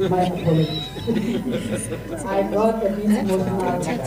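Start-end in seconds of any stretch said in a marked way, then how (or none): 0.9-2.2 embarrassed laugh. Real, not acted. Embarrassed after apologising for emotion.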